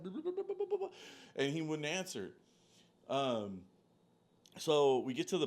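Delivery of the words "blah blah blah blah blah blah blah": sing-song blah. Retold or imitated. Mocking his own repeated messages.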